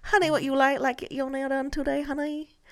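hammed-up Asian accent, coaxing a customer; Asian nail lady accent. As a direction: badly imitate an Asian nail technician. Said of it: "your local nail lady in the hood".

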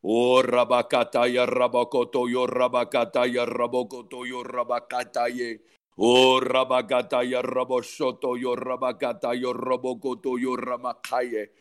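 rhythmic flowing glossolalia, fading at phrase ends; praying in tongues. Real, not acted. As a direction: let the syllables pour out in a chant.

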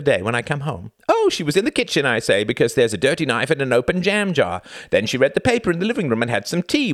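high, heated, relentless rant; shouted tirade. A narrator's reading. Husband itemises his wife's mess around the flat, ranting. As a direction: list the evidence with mounting exasperation. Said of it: "shouted Reginald".

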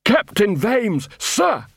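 a dim troll sounding off proudly; troll shouting to attention. Acted. Troll guard shouting his captain's name.

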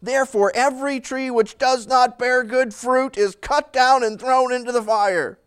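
mildly acted prophet's threat; harsh warning. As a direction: deliver it as a blunt rebuke. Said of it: "So you can hear his tone. He's not a nice guy".

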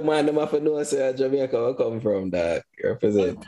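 Jamaican patois. Pretend. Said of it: "bring out the patois".

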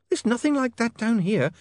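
put-on bright, high, curious young lady; an eager young woman asking. A narrator's reading. Sacharissa answers.

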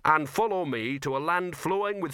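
imitating a big dog. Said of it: "big dog that says".

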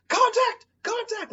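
high, loud battlefield yell; retold yell. Soldier hit by a mine yelling to his squad, high panicked shout. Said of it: "he starts just yelling".

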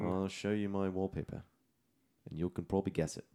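lightly put-on British accent; casual attempt at a British accent. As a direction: keep up the mock British, easing down. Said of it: "it's a British accent".

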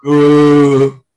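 loud, drawn-out "ooh"; mock deep-voice "ooh". Shown as a demonstration. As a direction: hold a showy "ooh" as a deep-voice demo. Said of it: "My voice will sound like this".

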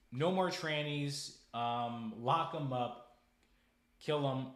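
a furious, drawn-out demand; angry rant. Real, not acted. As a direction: bark it out in disgust. Angry rant about offenders.

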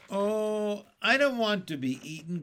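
high, hurried wail; frightened cry. A narrator's reading. Earthworm afraid of the sharks, high frightened cry. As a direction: cry out in dread of being food. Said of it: "cried the la-, earthworm".

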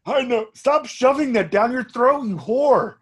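high, put-on scolding voice; cartoon character impression. Character scolding someone for eating, high put-on voice. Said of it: "he's like".

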